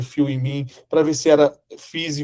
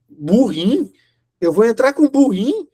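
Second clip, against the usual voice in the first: incredulous question; 6 semitones higher, 3 dB louder than usual. Retold or imitated. Shocked at the donkey.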